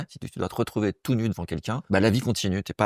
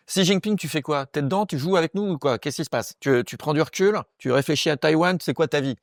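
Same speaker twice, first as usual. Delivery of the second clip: higher-pitched mock interrogation; impatient challenge; 5 semitones higher than usual. Comic calling out a silent leader, impatient mock challenge. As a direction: press him with exasperated questions, pitch raised. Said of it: "Donc tu vas sortir de ta cachette, le Chinois".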